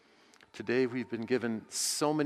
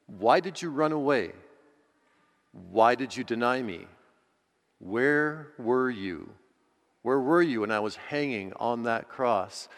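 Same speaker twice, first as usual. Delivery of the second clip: louder, stern questioning from Jesus; stern rebuke; 4 dB louder than usual. Pretend. Jesus confronting the frightened disciples, stern and loud. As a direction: press each question like an accusation. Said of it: "with a very stern look on his".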